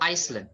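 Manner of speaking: island misread as "Iceland"; mispronounced island. Shown as a demonstration. Teacher giving a second misreading, island mispronounced "Iceland". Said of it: "mungkin ada beberapa orang akan bacanya".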